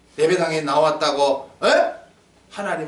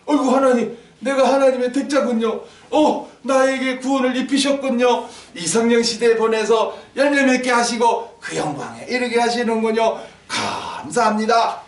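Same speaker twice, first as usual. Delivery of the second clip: higher-pitched, heartfelt thanks to God; grateful exclamation; 4 semitones higher than usual. Acted. Preacher plays a believer thanking God, grateful exclamation. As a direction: voice a believer marvelling at grace.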